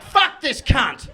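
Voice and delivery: loud, slow dismissive curse; mock audience contempt. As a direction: spit it out as a fed-up listener. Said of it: "You were like".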